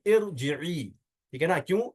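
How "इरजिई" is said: इरजिई opening on "ir"; initial short i. Shown as a demonstration. Teacher repeats for students the correct form, इरजिई with initial "i". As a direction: say इरजिई with "i" first and long "ee" last. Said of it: "क्या कहेंगे?".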